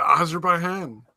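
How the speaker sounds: "Azerbaijan" with an h for the j; mispronounced. Real, not acted. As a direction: say "Azerbaijan" as Azer-bye-han. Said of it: "I thought you were deliberately mispronouncing it".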